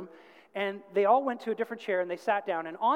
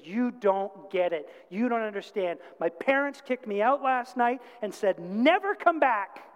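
acted distraught outburst; 3 semitones higher, 5 dB louder than usual. Crying girl bursts out at the youth group, acted distraught outburst. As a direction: imitate a frustrated girl bursting out, building. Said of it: "she's bawling and she's crying and she just scream-, like, kinda bursts out".

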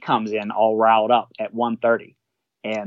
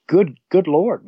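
exasperated; 6 semitones higher, 4 dB louder, slower than usual. Retold or imitated. Reacting to captain avoiding George.

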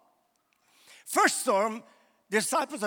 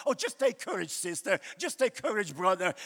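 mock preacher comfort; 3 semitones lower than usual. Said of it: "we always say to people in the church".

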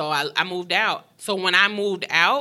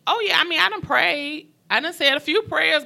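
exasperated; 11 semitones higher, 5 dB louder than usual. Real, not acted. Exasperated about praying.

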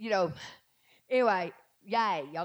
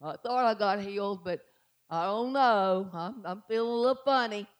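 mocking a doubter; 3 semitones lower than usual.

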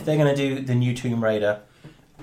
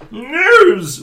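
shouted announcement; 12 semitones higher, 13 dB louder than usual. Acted. Calling out the news segment.

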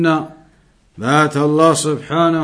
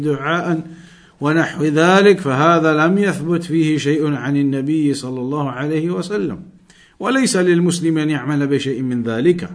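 brisk, louder Arabic text reading; reading the book aloud; 4 dB louder, much faster than usual. Acted. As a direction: rattle off the Arabic passage from the book.

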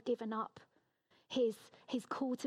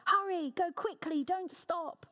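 mildly shouted, higher command; urgent shout; 6 semitones higher, 4 dB louder than usual. A narrator's reading. Jonathan calls after the boy in the field, urgent shout. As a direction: read it as a raised-voice call to hurry. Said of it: "Then he shouted".

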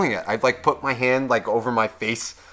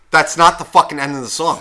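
louder, indignant retold complaint; heated objection; pissed-off protest; 6 dB louder than usual. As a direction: protest it like you're outraged. Retelling his pissed-off complaint.

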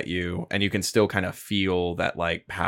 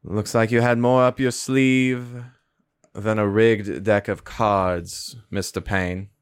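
smooth, slow casino boss; slower than usual. Acted. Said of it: "looks up at you and goes".

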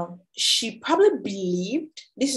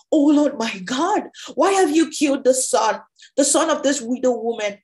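raised, pleading cry to God; 3 semitones higher, 4 dB louder than usual. Acted. Elijah to the Lord over the dead son, crying out. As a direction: call out in mild anguish, starting high and loud. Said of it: "cried out to the Lord".

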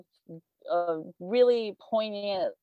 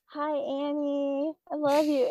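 sappy shout-out; 6 semitones higher, slower than usual. Pretend. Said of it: "what if I say".

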